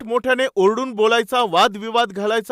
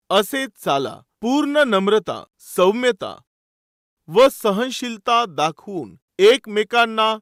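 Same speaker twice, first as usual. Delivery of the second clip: slow, measured scripture reading; solemn, drawn-out Bible recitation. Acted. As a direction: read the verse out slowly, phrase by phrase. Reads scripture aloud to congregation.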